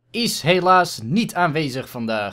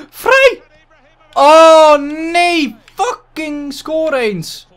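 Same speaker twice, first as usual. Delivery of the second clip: excited yell; 9 semitones higher, 7 dB louder, much slower than usual. Real, not acted. Chance in the game, then miss.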